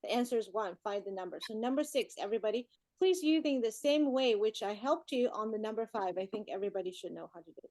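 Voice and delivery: brisk read-aloud, sentences run together; read quickly. Real, not acted. Teacher reading a maths problem to the class, quickly. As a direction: run through the problem without pausing. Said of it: "you read that so fast".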